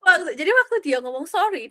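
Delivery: real amused laugh mid-sentence; laughing while telling. Real, not acted. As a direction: laugh it out as you tell.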